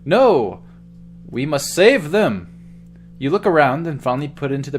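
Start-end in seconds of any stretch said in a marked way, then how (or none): 0.0-2.5 urgent alarm. Acted. Urgent call to rescue.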